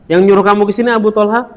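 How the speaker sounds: fast, rising "Yang nyuruh kamu ke sini Abu Thalha?" asked as if already knowing; quick knowing query with a lift at the end; quick knowing question. Shown as a demonstration. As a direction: toss off the question briskly like someone who already knows. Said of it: "Tahu ya, tahu".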